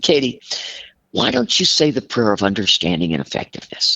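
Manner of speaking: calm, measured suggestion; retold calm advice. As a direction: imitate a friend calmly offering advice. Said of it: "he said just so calmly".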